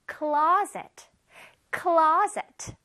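"closet" with CLO hit firmly, second syllable lighter; stress on CLO. Shown as a demonstration. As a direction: punch the CLO in each "closet". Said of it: "발음 C L O에서 강세가 들어가요".

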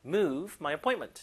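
slow, stressing move; slow model reading. Shown as a demonstration. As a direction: read it out slowly for students. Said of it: "들어볼게요".

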